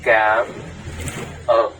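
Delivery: Cảm ơn pronounced clearly for learners; Vietnamese thank you. Shown as a demonstration. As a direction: say Cảm ơn as the model. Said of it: "we say".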